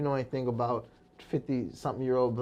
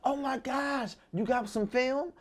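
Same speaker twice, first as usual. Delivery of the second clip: higher excited mom voice; a lightly voiced excited mother; imitating mom; 10 semitones higher, 3 dB quieter, slower than usual. Son imitating his mom thrilled about film, higher pitch.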